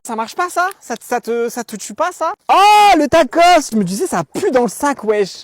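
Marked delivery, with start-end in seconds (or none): 2.5-3.7 high, loud, slow cry of disgust; disgusted discovery. Acted. Découvrant un vieux tacos dans son sac, cri dégoûté. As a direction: recoil at the smell.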